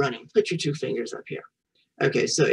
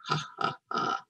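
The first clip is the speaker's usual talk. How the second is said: imitated laugh; 7 dB quieter than usual. Shown as a demonstration. Acts out "fun" for children.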